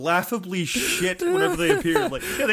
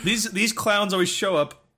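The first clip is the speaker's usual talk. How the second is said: talking through a burp; words pushed out around a burp. Real, not acted. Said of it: "Sorry, I'm burping a lot".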